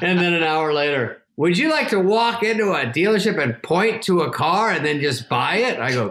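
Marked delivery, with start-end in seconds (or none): 1.4-5.8 lightly voiced, higher sales pitch; Norm Macdonald. Comedian dangling a car by text, lightly imitated pitch. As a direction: tempt him with a slight impression. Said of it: "He just goes".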